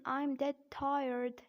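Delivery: slow American "tired" with a sounded R; slow American-accent demo. Shown as a demonstration. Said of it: "in American accent".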